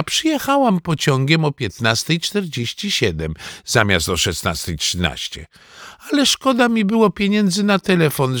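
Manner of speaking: a hint of a fussy, affectionate granny; grandmother's lively voice, lightly acted; lightly voiced doting grandmother. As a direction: gush lightly over your grandchild, swooping upward. Narrator voices visiting grandmother.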